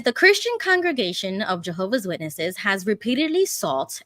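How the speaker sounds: steady, careful article reading; measured read-through of a news report; news article read-aloud. Acted.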